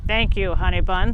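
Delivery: a hint of a fake granny from under the quilt; muffled voice. Wolf in bed pretending to be Grandma, lightly muffled and low. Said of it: "said a muffled voice".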